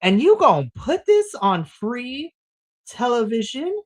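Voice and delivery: mock outrage at the booker; incredulous. Fan asking Tony Khan in disbelief, mock incredulous. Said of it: "I'm just sitting here and I'm like".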